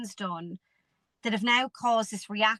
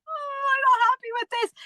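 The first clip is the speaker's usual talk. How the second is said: much higher, louder whiny moan; mock complaint; 4 dB louder than usual. The speaker mocking how she moaned before the coaching, high and whiny. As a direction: ham up a petulant gripe.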